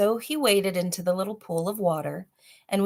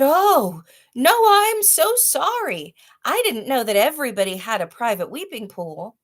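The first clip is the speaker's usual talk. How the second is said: much higher, louder pleading voice; frightened apology; 7 semitones higher, 6 dB louder than usual. Acted. Father dangling over the pool, high pleading apology. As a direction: plead like a scared little boy.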